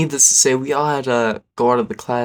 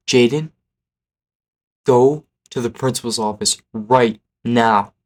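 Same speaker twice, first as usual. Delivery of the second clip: firm, emphatic retold order; mock teacher yell; 4 dB louder than usual. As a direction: order him out like an angry teacher. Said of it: "screams. He's like".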